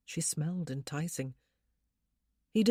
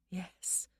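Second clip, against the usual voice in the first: drowsy, much softer; sleepy soft yes; 2 semitones higher, 8 dB quieter than usual. Acted. Wife answers husband sleepily, much softer. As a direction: barely breathe it, half asleep.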